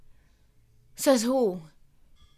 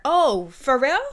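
loud, rising fake disbelief; mock surprise; 3 semitones higher, 6 dB louder than usual. Mocking people who excuse cruelty, loud fake surprise. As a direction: gasp it out as if shocked.

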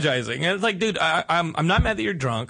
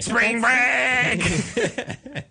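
laughing; 7 semitones higher than usual. Real, not acted. Laughing callback catchphrase.

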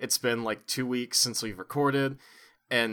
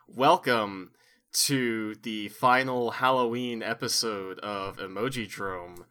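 horror host. Acted. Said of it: "I have to do a horror host bit".

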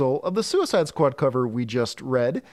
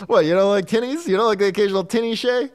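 mock Australian accent; 5 semitones higher, 3 dB louder than usual. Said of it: "my Australian accent".

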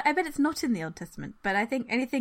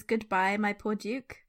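Bond villain; 3 semitones higher than usual. Retold or imitated. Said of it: "In a very Bond villainy kind of way".

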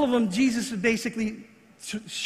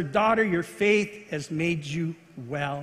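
tender; 4 semitones lower, slower than usual. Retold or imitated. Jesus's healing words to woman.

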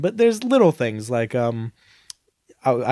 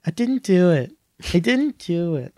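put-on kid's denial; 4 semitones higher than usual. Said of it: "I just lately have been saying".

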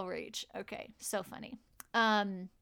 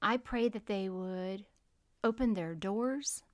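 prayer; 3 dB quieter than usual. Acted. Prayer continues.

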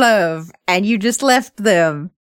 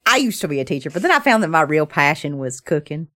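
deadpan character line; 8 semitones lower, much faster than usual. Shown as a demonstration. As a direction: drop it low and flat as a gag. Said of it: "second take of the same line".

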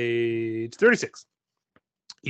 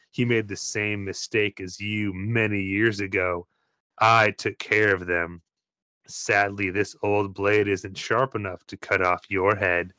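lightly voiced sneering pirate; 4 semitones lower than usual. Scarred pirate villain speaking.

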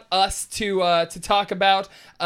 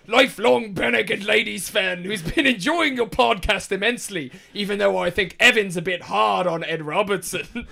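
Norse accent; 4 dB louder than usual. Shown as a demonstration. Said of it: "Read it like a Norseman would read it".

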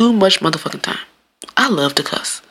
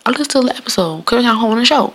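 higher-pitched mimicry of a boastful guest; mocking imitation; 6 semitones higher than usual. Podcaster quoting the guest who fibbed about listening, mockingly. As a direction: mimic his claim, pitched up.

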